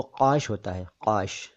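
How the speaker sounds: काश pronounced "qaash", with uvular q; back-of-throat q opening काश; dotted q. Shown as a demonstration. Teacher naming the word for a slice, काश as qaash. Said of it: "उसमें क के नीचे नुक्ता होता है".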